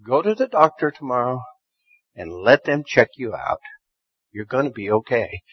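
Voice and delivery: calm him down gently; reassuring God. Retold or imitated. God reassuring the worried preacher, soft and low. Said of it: "He says".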